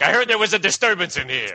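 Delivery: lightly voiced cop barging in; a hint of an officer investigating. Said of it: "there was a cop that came in".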